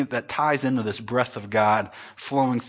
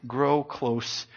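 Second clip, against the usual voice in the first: soft appeal; 5 semitones lower, 10 dB quieter, much slower than usual. Acted.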